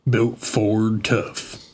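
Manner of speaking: slow, deliberate truck commercial voice. Pretend. Streamer mimics a truck commercial, slow gruff ad read. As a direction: drawl it like a Marlboro man. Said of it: "Sound like a Marlboro man".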